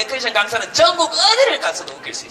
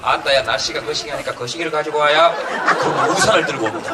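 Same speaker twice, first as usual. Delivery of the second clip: Jeolla dialect; 7 semitones lower than usual. Pretend. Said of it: "전라도 사투리 한번 보세요".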